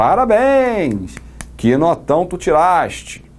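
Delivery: slow, sarcastic, high and swooping. Illustrating irony, a teacher congratulates a student who scored zero with sarcastic congratulation. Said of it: "Também estaria ironizando".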